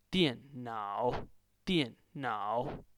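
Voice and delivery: teacher's tone model of "电脑"; fourth then third tone. Shown as a demonstration. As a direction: drop on "电", scoop through "脑". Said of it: "the second one is the third tone".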